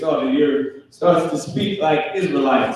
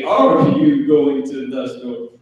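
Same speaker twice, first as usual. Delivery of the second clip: mock proper English; slower than usual. Shown as a demonstration. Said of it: "I like to say".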